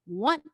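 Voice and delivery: "One" said firm and full; emphatic lone "One"; gospel one. Shown as a demonstration. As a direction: land "One" like it matters most. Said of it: "this is the most important word".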